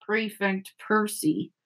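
slow, soft grumble; muttered. A narrator's reading. Fred grumbling about his brother Percy, muttering. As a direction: mutter it under the breath, drawn out. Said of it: "muttered Fred".

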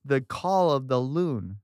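slow, spooky-story emphasis on "call" and "loon"; the call of the loon, said slowly and ominously; drawn-out, dramatic phrase. Real, not acted. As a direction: stretch "call" and "loon" slowly, like a campfire reveal. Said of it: "it's the way you said it".

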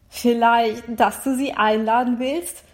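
irritated butting-in question; annoyed. Acted. Overseer at the next table interrupts Niklas, annoyed. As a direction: ask it with a touch of annoyance. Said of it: "fragt eine genervte Stimme".

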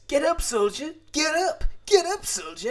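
high, loud barking command; soldier's desperate battle cry; shouted army order. Retold or imitated. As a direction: yell it like a drill sergeant rousing a fallen man. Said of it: "he says".

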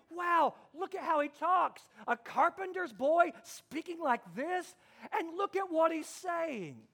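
sincerely amazed crowd. Retold or imitated. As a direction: marvel at him without sarcasm. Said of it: "This wasn't sarcasm".

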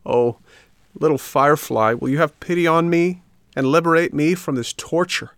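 high, plaintive puppet begging for rescue; pleading. A narrator's reading. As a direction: plead desperately, pitch lifted well up.

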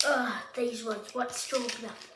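put-on British accent. Voicing what Ganon probably says, in a British accent. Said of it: "talk in a British accent".

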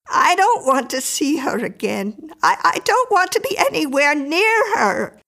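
high, stammering, rising agitation; fearful refusal. A narrator's reading. Mrs Miller dreads seeing Miriam.

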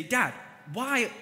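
high, loud mock-angry rant at his dad; hammed-up fury, yelling at Dad; angry outburst. Son snapping back at his dad over a sarcastic remark, mock-angry yell. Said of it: "I could respond out of my anger and emotion".

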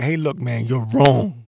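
mild mock bluntness; blunt man to man. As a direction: tell it straight, no softening. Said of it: "the tone of you just saying".

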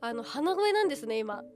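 blocked-nose voice; nasal voice. Real, not acted. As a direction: speak through a stuffy nose.

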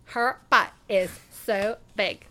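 put-on slow, drawn-out Valley Girl. Host playing along with partner, slow mock Valley Girl. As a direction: draw each word out in mock Valley Girl. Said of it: "give me your best Valley Girl".

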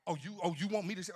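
normal talking voice

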